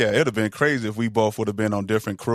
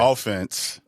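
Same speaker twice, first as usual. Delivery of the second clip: referee penalty announcement; 3 semitones lower, 3 dB quieter than usual. Acted. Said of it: "that same referee voice".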